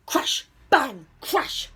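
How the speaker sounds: loud storm sound words; thunder imitation. A narrator's reading. Storyteller voices the thunder at night, loud bursts. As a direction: hit each crash and bang hard.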